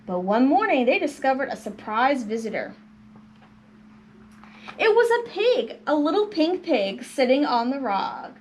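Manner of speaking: lively picture-book reading; storybook narration. A narrator's reading. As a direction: tell it to children with animated rises and falls. Reads picture book to children.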